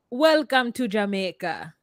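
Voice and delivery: lightly put-on Jamaican accent. Shown as a demonstration. Showing co-host how to say it, Jamaican accent. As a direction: give it a Jamaican lilt. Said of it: "Can you say, like".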